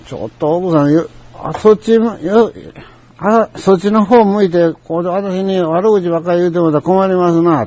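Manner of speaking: retold annoyed objection, pitch climbing; mildly heated complaint with stumbling start; a bit angry. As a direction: confront the customer, voice rising. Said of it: "それだけちょっと頭きたからな".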